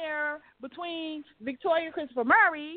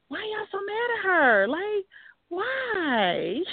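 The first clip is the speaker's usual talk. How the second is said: higher, whiny, near-crying plea; mock exasperated disbelief; 7 semitones higher, much slower than usual. Pleading with the angry posters about the lady, whiny and high. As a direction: beg them to explain, voice up high. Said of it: "and I'm like".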